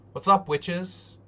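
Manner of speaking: high, loud, slow sing-song; mock streamer hype; hammed-up greeting. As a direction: greet the witches like a showman.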